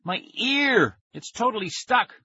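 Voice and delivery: high, whiny panicked wailing; distressed wail. A narrator's reading. Boy explains his ear is stuck to the phone, wailing. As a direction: wail each phrase in despair.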